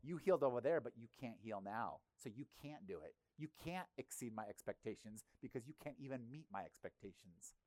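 sneer, then let it sink into dismissal; cynic's sneer. Retold or imitated. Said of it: "A cynic says".

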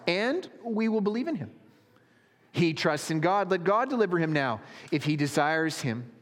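high, emphatic taunts; mocking. A narrator's reading. Priests and elders mocking the man crucified, high-pitched taunting. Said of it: "with the scribes and elders mocked him".

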